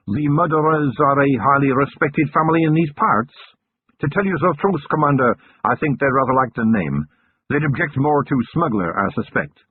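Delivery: a hint of a chatty lieutenant; officer explaining, mildly voiced; amused lieutenant. A narrator's reading. Lieutenant explains local custom.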